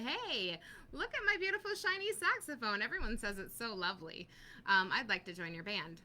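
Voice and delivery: bright, eager pitch jump on beautiful shiny saxophone; naive hopeful musician. Pretend. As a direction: play the clueless show-off with a shiny horn. Pretend saxophone owner to band.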